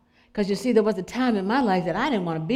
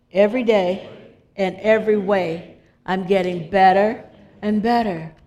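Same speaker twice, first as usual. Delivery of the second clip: emphatic affirmation; 4 dB louder than usual. Shown as a demonstration. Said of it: "Can you say that with me?".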